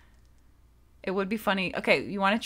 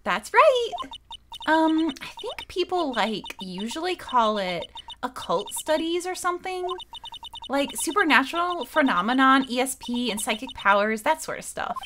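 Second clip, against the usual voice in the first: put-on Valley Girl; 2 semitones higher than usual. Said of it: "Like, Valley Girl's good for this".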